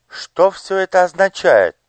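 high, bewildered question; the lady can't believe what she sees; astonished. Acted. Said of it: "изумлённо проговорила прекрасная дама". (изумлённо)

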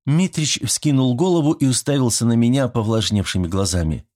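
ordinary delivery

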